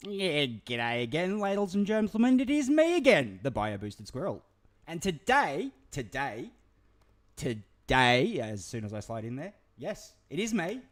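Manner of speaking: loud, high, over-excited Aussie squirrel voice; manic squirrel host. Acted. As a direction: burst in like a hyper squirrel. Hyper squirrel host intro.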